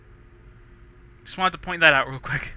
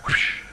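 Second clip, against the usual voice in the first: spoken whoosh like a cracking whip; whip sound. Shown as a demonstration. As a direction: mouth a quick whip crack effect. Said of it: "I did a whip sound for that jump".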